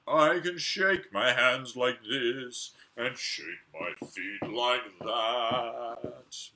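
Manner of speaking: sing-song the scarecrow's boast; a hint of a jolly scarecrow. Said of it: "this is what he said".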